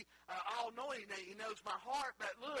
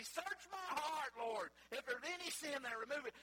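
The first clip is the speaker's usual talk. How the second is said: put-on old timers praying; 6 semitones higher than usual. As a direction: draw out "Search" like an old saint praying. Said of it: "the old timers when they pray, they say".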